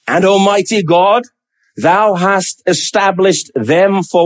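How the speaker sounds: slow, measured reading with a questioning lilt; a statement leaning toward a question; questioning intonation. Acted. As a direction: draw out "established them" as if querying it. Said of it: "Can you hear the question in his voice?".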